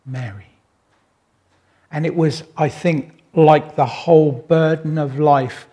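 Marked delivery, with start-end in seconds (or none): 0.0-0.5 soft, low, tender name; gentle word. Acted. Jesus gently speaking Mary's name, soft and low. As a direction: breathe her name with love. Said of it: "hearing the gentle word of Jesus".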